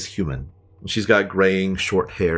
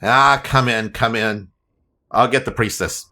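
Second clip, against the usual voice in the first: gnome voice; 3 semitones higher, 3 dB louder than usual. Acted. Gnome greeting at the door.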